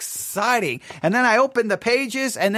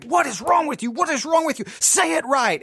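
mock yell at himself, pitched higher; frustrated self-scolding; 6 semitones higher than usual. Host recalling berating himself over mistakes, exasperated yell. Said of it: "upset and frustrated I'd get mad at myself".

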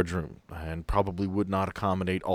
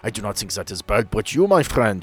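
put-on German accent. Doctor answering the Dane's guess, light German accent. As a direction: play the German doctor, proud of his roots.

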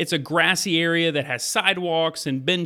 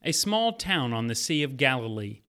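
story narration. Acted. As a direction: draw the listener into the scene. Retells Bible story over music.

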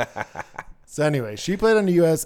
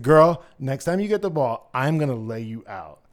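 mock threat; 6 dB louder than usual. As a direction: warn the rival with playful swagger. Retold threat to a rival player.

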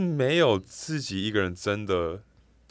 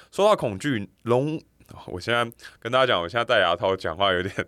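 slight lisp from a retainer; wearing a retainer. Real, not acted. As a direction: talk around a retainer in your mouth. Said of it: "我现在戴牙套讲话有点大舌头".

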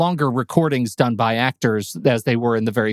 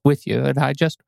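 grandma; 3 semitones higher than usual. Pretend. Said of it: "Granny Metz".

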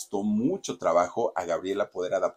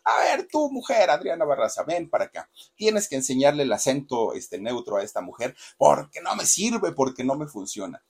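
much higher, louder commanding yell; bossy director's order; 5 semitones higher, 4 dB louder than usual. Retold or imitated. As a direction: shout the order at a subordinate. Director orders a colleague around.

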